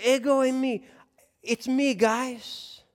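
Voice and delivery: ego eimi as a buddy; casual Jesus. Retold or imitated. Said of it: "he is saying".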